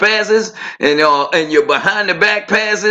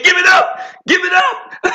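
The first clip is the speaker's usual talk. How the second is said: high shouted give it up; calling for the ball; 12 semitones higher than usual. Retold or imitated. Player yelling to teammate for the ball. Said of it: "You say".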